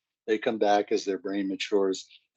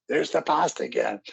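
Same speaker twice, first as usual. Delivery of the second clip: mock teen scream; 4 semitones higher than usual. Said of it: "And she screams".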